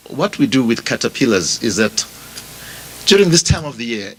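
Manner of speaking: ordinary talk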